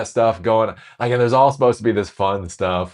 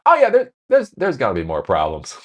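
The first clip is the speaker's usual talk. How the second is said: overconfident boss; 5 semitones higher, 4 dB louder than usual. Retold or imitated. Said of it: "very confidently says".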